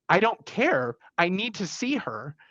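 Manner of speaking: a touch of a brother demanding to get in; retold insistence. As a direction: imitate the brother pushing past the nurse. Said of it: "fighting with the nursing staff".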